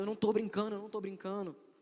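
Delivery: frantic, high-pitched, desperate pleading. Speaker retells another person insisting he was not joking, imitating desperate pleading. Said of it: "ele começou a ficar muito desesperado".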